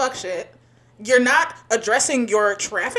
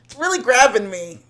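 sarcastic. Real, not acted. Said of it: "I can hear the sarcasm in, in your voice".

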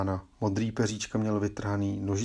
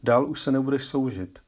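a small bird talking like a person, pitched up; little bird speaking; 3 semitones higher than usual. Acted. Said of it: "zaštěbetá lidskou řečí".

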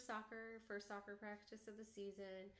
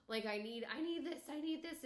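put-on panicky child; 7 semitones higher, 6 dB louder than usual. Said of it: "he started to be like".

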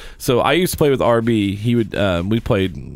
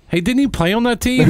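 much higher put-on voice for a teammate's question; imitating teammate; 13 semitones higher than usual. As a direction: squeak it out as a puzzled buddy. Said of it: "A P going like".

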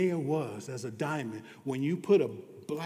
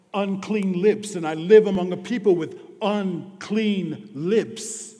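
anguished cry; 4 semitones higher, 8 dB louder than usual. Retold or imitated. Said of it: "I cried".

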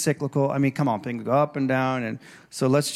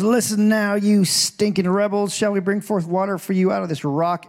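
mock angry Moses; 4 semitones higher than usual. Moses rebuking the people again.

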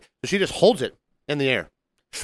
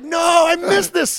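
high, loud mock wail; shouting in dismay; 4 dB louder than usual. To co-host about missing the Karen fall, loud mock wail. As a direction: yell it like you missed the best part.

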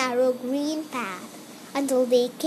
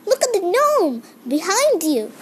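calling out; 7 semitones higher, 5 dB louder than usual. Acted. Gnome shouts warning at brownies.

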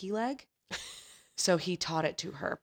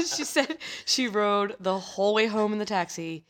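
laughing through words; 3 semitones higher, 5 dB louder than usual. Real, not acted.

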